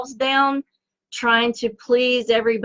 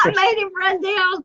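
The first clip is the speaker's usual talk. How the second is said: laughing; 9 semitones higher than usual. Real, not acted. Laughing at partner.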